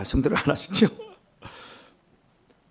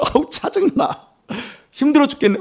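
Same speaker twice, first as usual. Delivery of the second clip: mock exasperation; 6 semitones higher than usual. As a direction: play a fed-up churchgoer whining. Voices a listener fed up with sermons.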